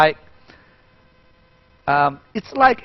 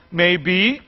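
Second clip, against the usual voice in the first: put-on comic child crying. Shown as a demonstration. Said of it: "We say".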